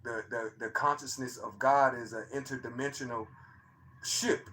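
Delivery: soft, low-voiced telling; talking low. Real, not acted. Telling the chat about the night he recorded it, talking low and soft. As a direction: keep it hushed, almost to yourself. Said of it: "I don't know why I'm talking so, so low".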